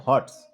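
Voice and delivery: হটস said as one joined word; joined pronunciation. Shown as a demonstration. Teacher shows students the contraction, হটস pronounced together as one word. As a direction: run the final s straight onto হটস. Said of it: "একসাথে উচ্চারণ করতে হবে".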